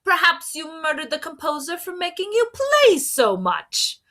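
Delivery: high, accusing detective voice; inspector. A narrator's reading. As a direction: point the finger with glee.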